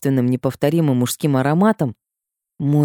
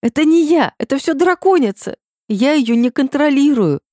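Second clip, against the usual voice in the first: high, loud desperate outburst; blurted out; 12 semitones higher, 4 dB louder than usual. Acted. Heroine blurting excuses to the rector, high and loud. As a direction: blurt it out near tears. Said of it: "Слова сами вырвались".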